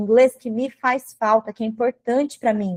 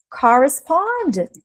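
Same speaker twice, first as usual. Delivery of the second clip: one long, stretched English word; slow dictation; 3 semitones higher, much slower than usual. Shown as a demonstration. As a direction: draw the word out for students writing. Dictating the phrase while writing.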